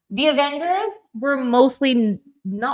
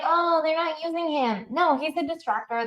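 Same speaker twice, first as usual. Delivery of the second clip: mocking Swifties; 6 semitones higher than usual. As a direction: parody a clueless Swiftie. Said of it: "All these little Swifties are like".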